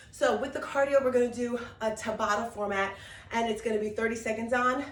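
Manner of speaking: usual speaking voice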